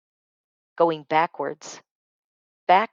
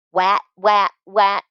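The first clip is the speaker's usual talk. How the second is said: put-on toddler teasing; 3 semitones higher, 4 dB louder, slower than usual. Baby brother teasing again.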